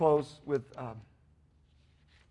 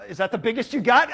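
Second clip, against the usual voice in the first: 1 demanding question; 5 semitones higher, 7 dB louder than usual. Retold or imitated. Escalating drive-through order.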